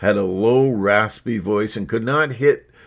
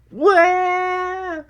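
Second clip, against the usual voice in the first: surprised. Acted. Surprised high exclamation.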